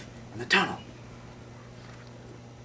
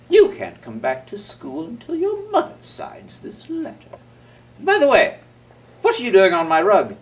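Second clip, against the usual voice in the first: stern principal; 3 semitones higher, 3 dB louder than usual. Acted. Principal Miss Woodhands scolding Willie in her office. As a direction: scold the boy primly. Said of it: "the principal, Miss Woodhands".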